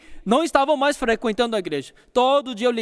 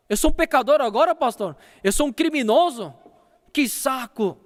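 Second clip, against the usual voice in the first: irritated outburst; 4 semitones higher than usual. Retold or imitated. Young man snapping at the pastor over the phone, angrily. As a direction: push back hard, offended and fed up. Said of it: "De repente ele ficou bravo".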